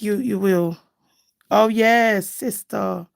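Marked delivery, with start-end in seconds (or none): none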